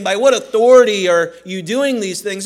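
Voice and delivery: attitude. Shown as a demonstration. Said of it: "we have to hear a little bit of attitude in their voice".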